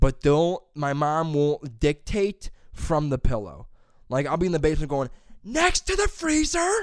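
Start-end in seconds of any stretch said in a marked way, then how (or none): 5.4-6.7 put-on booming yell, higher pitch and louder. Retelling mom shouting from the basement: imitating mom yelling. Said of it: "amplify your voice to shake the trim".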